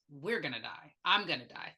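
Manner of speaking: low, soft flat mutter; general muttering. Retold or imitated. Patient muttering to nobody, low and soft. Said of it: "It was".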